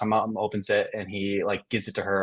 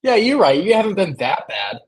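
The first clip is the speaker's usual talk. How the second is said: sarcastic tone; 7 semitones higher, 4 dB louder than usual. Acted. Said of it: "there is a tone there".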